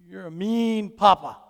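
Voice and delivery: mildly voiced pouting child; a touch of childish indignation; upset child. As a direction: lightly imitate a cross little boy. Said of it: "Then he was upset".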